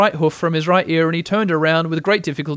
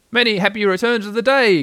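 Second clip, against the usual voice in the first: raised, higher-pitched cheery greeting; calling out; 7 semitones higher, 4 dB louder than usual. A narrator's reading. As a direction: call it out as from across a river. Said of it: "called out Pooh".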